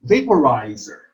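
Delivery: "vaporizer" as va-po-RI-zer; third-syllable stress. Shown as a demonstration. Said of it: "the third syllable is accented".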